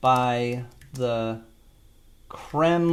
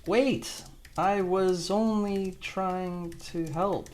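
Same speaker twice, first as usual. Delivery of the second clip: acted plea; 6 semitones higher, 5 dB quieter, much slower than usual. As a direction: plead innocence slowly in a raised pitch. Voices hauled-off man's plea in prompt.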